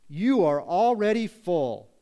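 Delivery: loud, drawn-out sarcasm; slow sarcastic declaration. Acted. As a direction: stretch it out mockingly. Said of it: "he's gonna do it using sarcasm".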